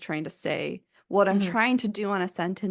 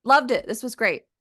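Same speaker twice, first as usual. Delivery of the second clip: mock gushing praise; 4 semitones higher, 6 dB louder than usual. Mocking vague praise.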